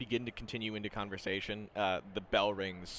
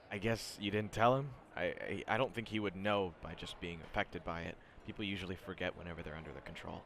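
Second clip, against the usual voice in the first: low, quiet student; reserved, soft explanation trailing down; Shinso; 4 semitones lower, 7 dB quieter than usual. Acted. Student explaining his quirk to the others, low and softly. Game master voices Shinso.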